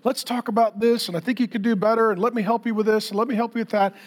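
a hint of a supportive coach pep talk; encouraging coach. Dad coaching his kids one-on-one, lightly imitated encouraging coach. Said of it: "just like a coach".

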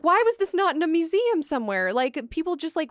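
real incredulous agitation; getting worked up. Real, not acted. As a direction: demand an answer, pitch climbing. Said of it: "I'm getting worked up".

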